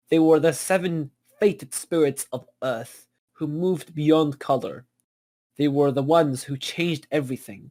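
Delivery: measured storyteller read of a mythic opening; story narration. Acted. Narrator reads the script's opening to the cast, storyteller voice. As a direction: narrate it like the opening of an epic tale.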